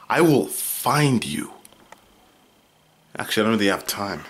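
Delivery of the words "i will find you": slow, deliberate mock threat; mock menace. Warning viewers not to tell, in a slow mock-menacing voice. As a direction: draw it out like a movie villain.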